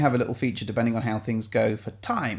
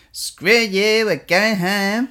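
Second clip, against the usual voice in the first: high, slow puppet voice; Muppety voice; 7 semitones higher, 4 dB louder, much slower than usual. Acted. Host telling listeners to like the new intro, Muppety voice. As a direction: put on a Muppet, drawn out. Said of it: "did a Muppety version".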